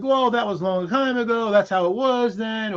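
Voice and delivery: mock dismissive. Speaker mimicking a man excusing the past, mock dismissive. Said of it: "this dismissive thing".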